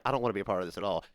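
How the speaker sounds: low, soft deadpan opt-out; muttered, pitched well down; reluctant refusal. Retold or imitated. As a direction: back out of it quietly. His reluctant reply to hyped friends.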